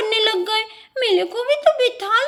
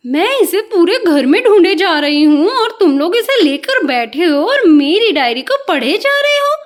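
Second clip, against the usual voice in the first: दादी की आवाज़ में हल्की डांट, थोड़ा ऊँचा स्वर; बच्चों से पूछताछ करती दादी; स्नेही डांटती दादी; 3 dB louder than usual. Acted. (डायरी पढ़ते बच्चों को पकड़ने वाली दादी, हल्की डांट)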